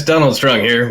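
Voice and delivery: booming mock overlord intro; booming arrogant alien overlord. Shown as a demonstration. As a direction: announce it like a smug alien ruler. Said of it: "do you need me to pull it up right now".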